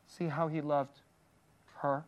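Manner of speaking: quiet "See how he loved", pause, then "her?"; soft, paused question. Shown as a demonstration. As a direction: gently land on "her". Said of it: "what the story is trying to say".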